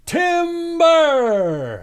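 high, long-drawn cartoon holler; lumberjack yell. Host imitates cartoon lumberjacks as the tree falls, mock yell. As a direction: draw it out high like a falling-tree warning. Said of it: "and they would yell".

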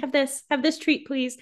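high coaxing voice, offering a puppy a treat; calling a dog. Acted. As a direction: coax a little dog toward you. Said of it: "calling to him like a little dog".

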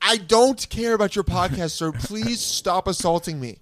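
exasperated improv plea, drawn out; acted exasperation. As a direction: spell it out slowly to a pestering stranger. Acted quarrel with a pestering customer.

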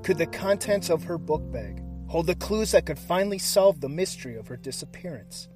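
hushed, dramatic true crime narration; suspenseful crime show narrator. A narrator's reading. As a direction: build suspense like a crime documentary. Dramatic cold open over music.

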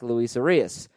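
"Arias" ending in a hissed s, not z; S sound on end. Shown as a demonstration. Host showing the mistaken name ending, careful pronunciation. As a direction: finish "Arias" on a clear s. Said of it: "No S sound on the end".

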